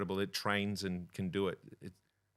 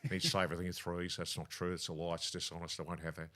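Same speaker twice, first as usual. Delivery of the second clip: quick, lightly voiced politician; Steve Brax impression; 3 semitones lower, 4 dB quieter, faster than usual. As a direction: rattle it off like a premier. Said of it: "Ring up as Steve Brax".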